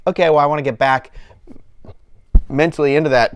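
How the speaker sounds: talking with the hiccups; words broken by hiccups. Real, not acted. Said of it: "God, now I'm hiccuping".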